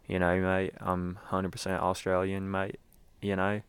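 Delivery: lightly put-on Australian accent. Vlogger claiming to be fully Australian, mock Australian accent. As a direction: attempt a jokey Australian accent, at an easy level. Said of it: "that is my Australian accent".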